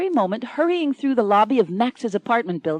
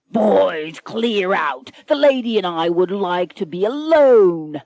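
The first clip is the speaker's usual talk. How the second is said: pirate captain's command; 6 dB louder than usual. Acted. Pirate captain orders crew out.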